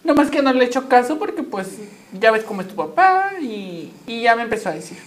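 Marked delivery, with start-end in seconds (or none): 0.0-3.3 mother voice. Retold or imitated. Mother explains, voiced higher.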